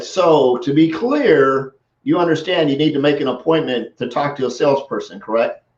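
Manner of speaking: very slow, drawn-out "So to be clear"; slow, deliberate. Retold or imitated. Seller answering a bully, slow and deliberate. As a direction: take your time, totally unshaken. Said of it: "After he did all this stuff".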